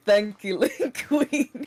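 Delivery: mock-flat echo of a friend's thank-you; mocking dead voice. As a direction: parrot it back as lifeless as possible, teasing.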